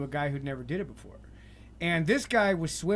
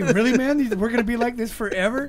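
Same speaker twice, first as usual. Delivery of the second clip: higher, louder disbelief; incredulous self; 5 semitones higher, 5 dB louder than usual. Retold or imitated. His inner self questioning him, loud and incredulous. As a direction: ask yourself in disbelief. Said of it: "Yeah, exactly".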